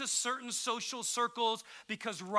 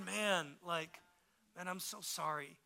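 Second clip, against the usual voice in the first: gentle, dropping to a softer tone; sympathetic dad; 2 semitones lower, 5 dB quieter than usual. Retold or imitated. Dad answers his upset child in that moment, retold sympathy. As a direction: console the child quietly.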